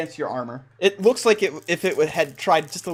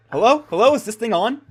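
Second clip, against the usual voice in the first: raised, louder testing-the-line call; 5 semitones higher, 4 dB louder than usual. Pretend. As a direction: call into a connection you're unsure of. Calling through a message spell.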